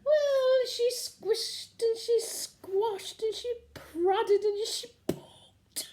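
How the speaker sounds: slow, high, breathless giggling; can barely get it out for giggling; half-laughing, slowed down; giggling through it. Acted. Giggling recalling the medical.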